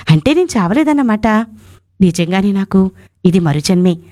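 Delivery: story voice on a radio show; dramatic story narration. A narrator's reading. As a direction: tell the story as an emotional radio reading. Dramatic first-person story read.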